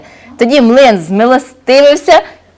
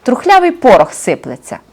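грубувато й зневажливо, з реготом; глузуй, як самовпевнений бандит; зухвалий розбійник; 2 semitones higher than usual. Acted. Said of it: "і зареготався". (розбійник насміхається з млина)

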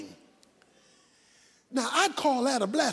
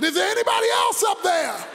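comic shout; 5 semitones higher, 3 dB louder than usual. Acted. Man refuses to let go.

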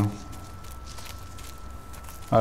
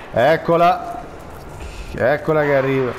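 alarmed cry; 5 semitones higher than usual. Real, not acted. Player spotting the stalker, alarmed cry. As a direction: yelp it out as the monster shows up. Monster appears again.

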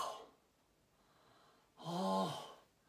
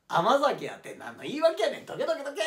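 loud; 8 semitones higher, 6 dB louder than usual. Acted. Shoving past the drunk.

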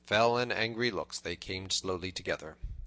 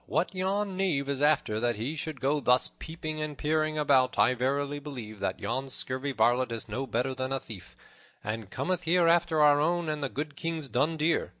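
raised, louder character voice; suspicious Little John, indignant; 6 semitones higher, 5 dB louder than usual. A narrator's reading. Little John suspects the tanner of poaching, indignant musing. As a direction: grumble aloud at a suspected thief.

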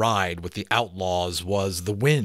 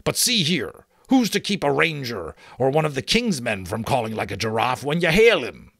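challenging giant; 5 semitones higher, 5 dB louder than usual. Acted. Giant challenges sentry's password logic.

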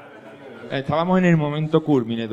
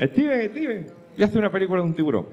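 excited director; 7 semitones higher than usual. Retold or imitated. Voicing a director.

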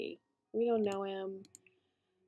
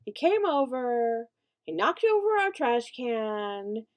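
indignant; 2 semitones higher, 4 dB louder than usual. Real, not acted. Tells off the visitor's offence.

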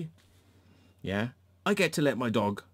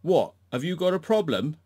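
imitating her snap; 6 semitones higher, 4 dB louder than usual. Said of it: "she turns around to me and she goes".

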